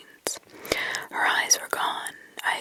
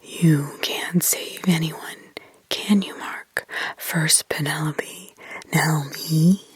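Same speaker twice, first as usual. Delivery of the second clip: put-on demonic child; 5 semitones lower, 3 dB louder than usual. Possessed girl accusing Mark, lower demonic whisper. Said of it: "it was demonic in others".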